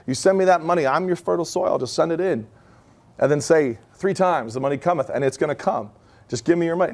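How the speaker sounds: lightly voiced preacher begging for money; a hint of a greedy preacher; mock televangelist. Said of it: "watched a guy say".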